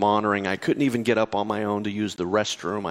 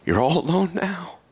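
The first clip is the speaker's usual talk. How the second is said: taunting enemy voice; 5 semitones higher than usual. Retold or imitated. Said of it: "I heard the enemy's voice say".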